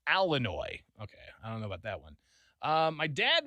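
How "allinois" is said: Illinois said "AL-uh-noy"; Illinois starting like "Al"; central Illinois pronunciation. Retold or imitated. Host reading out a listener's regional version, dialect pronunciation. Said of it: "in central Illinois, don't forget".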